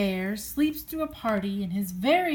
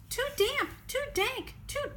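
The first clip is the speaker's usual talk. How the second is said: much higher tiny mouse voice; squeaky mouse; 12 semitones higher, 5 dB quieter than usual. Acted. Mouse complaining about the damp cave, squeaky. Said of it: "Mouse squeaks".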